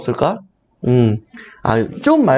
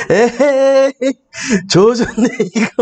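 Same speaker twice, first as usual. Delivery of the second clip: laughing mother impression; 6 semitones higher, slower than usual. Streamer reacts to the dancing character, laughing meme line. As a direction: blurt the meme and start laughing. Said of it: "춤추고 있어".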